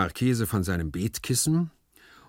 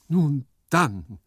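higher, louder enthusiasm; enthusiastic cry; 6 semitones higher, 7 dB louder than usual. A narrator's reading. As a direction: burst out with rapture. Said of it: "rief der Marchese begeistert". (begeistert gerufen)

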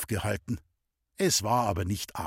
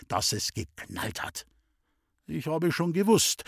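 plain reading voice

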